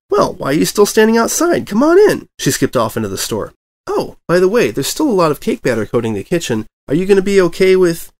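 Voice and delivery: high, bouncy excited pony voice; bubbly Pinkie voice. A narrator's reading. Pinkie greets the returning reporter, high and bubbly. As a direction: go high and bright with glee.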